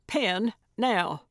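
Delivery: mildly urgent order; urgent demand. A narrator's reading. Gertrude needs a pen immediately, urgent. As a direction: demand it right away.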